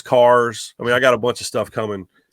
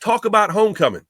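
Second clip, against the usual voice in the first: exasperated boss; 9 semitones higher than usual. Retold or imitated. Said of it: "He goes".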